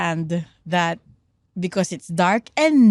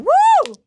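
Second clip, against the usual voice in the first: high, loud "woo!"; demo cheer scream; 6 dB louder than usual. Shown as a demonstration. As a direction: whoop like an excited concertgoer. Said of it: "You scream".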